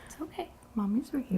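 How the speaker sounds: quiet, tender reassurance. Real, not acted. Owner calming her rabbit.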